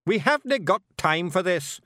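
high, loud, impatient Scots retort; Scottish snap. A narrator's reading. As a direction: cut the chatter short irritably. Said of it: "snapped Rob Anybody".

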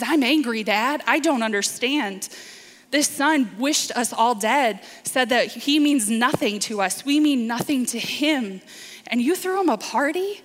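lightly voiced hurt protest to his father; angry older son. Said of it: "hurls harsh words at him".

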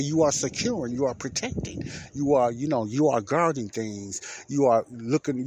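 mildly sarcastic, emphatic listing. Retold or imitated. Explaining the job to a coworker, mildly sarcastic. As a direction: list the obvious duties with a touch of sarcasm. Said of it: "I said it in a sarcastic way".

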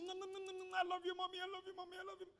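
put-on high, sweet little girl voice; talking doll. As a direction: coo it like a small daughter. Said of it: "two daughters".

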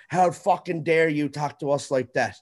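lightly hammed-up offended bureaucrat; mocking the city. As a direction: parody the city's huffy reply. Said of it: "they're like".

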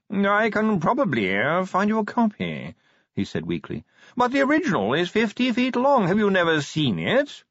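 a preoccupied chicken of a posh gentleman, dragging each word; posh yawning curator. Acted. Curator voiced in story.

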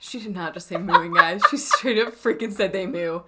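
giggling through the words; teasing, laughing hard. Real, not acted. Friend mocks "mooing" while laughing.

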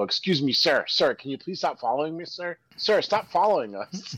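imitated nephews protesting. Nephews walking fast ahead in the mall, imitated mock alarm. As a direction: imitate boys pleading with a stranger. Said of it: "My, my nephews used to".

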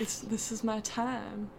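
put-on slow lazy Boston accent. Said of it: "You're gonna have your Boston accent".

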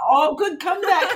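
high, loud, delighted laugh through the words. Retold or imitated. Writer cheering her own dialogue as she types, laughing. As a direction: crow it while cracking up. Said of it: "So I'm laughing".

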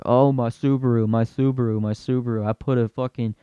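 lightly voiced bro bragging about his Subaru; a hint of a boastful gearhead; mildly mocking a car bro; bragging car guy.

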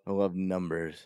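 savoring the words I LOVE NUMBERS; oddly savored. Real, not acted. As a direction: relish it a little too much. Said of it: "why'd you say it like that".

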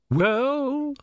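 a high, strange voice from the water; the sea itself speaking, uncanny; Sea Queen's voice. A narrator's reading. Sea Queen greeting the small god, uncanny.

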